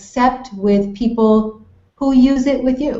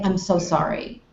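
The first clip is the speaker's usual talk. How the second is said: softened, subdued condolence; gently lowered voice for sympathy; quiet and low; 3 semitones lower, 6 dB quieter than usual. Shown as a demonstration. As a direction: keep it quiet and private. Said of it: "You wanna be quiet and low".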